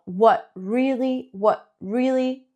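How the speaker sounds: "What" with an open O vowel, "really" light. Shown as a demonstration. Teacher modeling the vowel in "What really", clear. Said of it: "es como una O".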